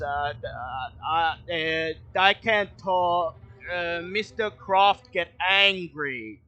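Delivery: hesitant, dim-witted woodcutter stammering; nervous simple man. Acted. GM voicing Bill, nervous about Mister Croft. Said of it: "He frowns and he says".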